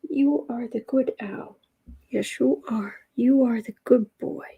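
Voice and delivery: light sing-song cooing; pet praise. Real, not acted. Owner coos praise at her pet, sing-song.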